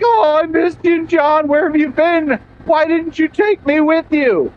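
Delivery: whiny dog voice. Retold or imitated. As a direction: voice the dog whimpering for its owner. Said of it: "That kind of whine".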